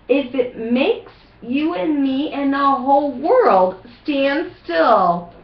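stubborn Zax shouting his rule, half-hearted; yelling south-going Zax. Acted. South Zax declaring he will never budge, mild mock yell. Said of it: "yelled the south-going Zax".

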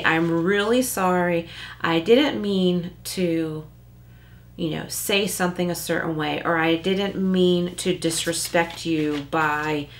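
heartfelt, unhurried apology; genuine. Shown as a demonstration. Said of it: "Like, that's genuine".

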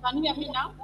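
faint, echoing bad connection. Real, not acted. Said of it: "Your voice is very faint and is echoing".

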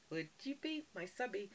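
soft, whiny fake-crying plea; mock whimper. Begs viewers to subscribe with a mock whimpering plea. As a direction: beg pitifully, hammed-up.

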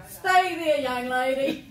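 loud, high mock order to stay put; lightly voiced doctor's command; a hint of a stern doctor. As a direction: bark it half-laughing like the doctor. Quoting doctor ordering her stop.

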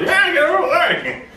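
high, drawn-out comic plea; mock panic. Retold panicked reply.

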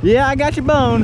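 high-pitched taunt to a dog; teasing call. Real, not acted.

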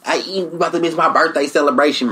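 high, quick nasal Oakland impression; playful mock Oakland town accent; nasally Oakland accent. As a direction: rattle it off in a nasal Oakland twang. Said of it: "that nasally ass".

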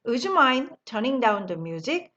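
very slow, every word laid out; slow model sentence. Shown as a demonstration. Teacher modelling the phrase slowly for the class. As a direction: spell it out slowly for learners to copy. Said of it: "다시 한번 하죠".

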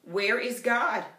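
stern pastor pressing harder; sterner pastor. Acted. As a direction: lean on each word sternly. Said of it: "in an even sterner voice".

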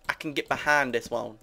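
lightly put-on slangy voice; catchphrase voice. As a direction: say it like a pet catchphrase. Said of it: "that is not my impression of American".

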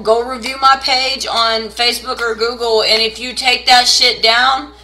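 demanding. Acted. Reader pushing viewers to review her page, loud and demanding. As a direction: lean on the viewers to leave reviews.

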